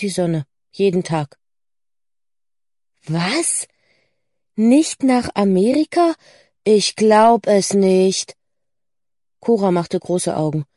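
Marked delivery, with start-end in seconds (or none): 3.1-8.4 rising disbelief, louder and drawn out at the end; incredulous. Acted. Friend hearing America is cancelled, incredulous. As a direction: react with astonished disbelief.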